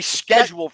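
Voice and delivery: "scheduled" back to a hard SK start; American pronunciation. Shown as a demonstration. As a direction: say "scheduled" the American way, SKED-joold. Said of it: "I hear it pronounced differently".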